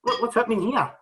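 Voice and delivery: high, laughing shocked "what what"; shocked surprise. Retold or imitated. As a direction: blurt it out, startled and amused.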